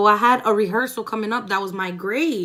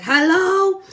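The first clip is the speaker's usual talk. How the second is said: annoyed hello; 10 semitones higher, 9 dB louder than usual. Retold or imitated. Mom finally picks up.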